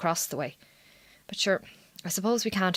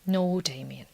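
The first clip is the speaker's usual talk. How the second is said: whisper; 4 dB quieter, slower than usual. Acted. Wife refusing husband in bed.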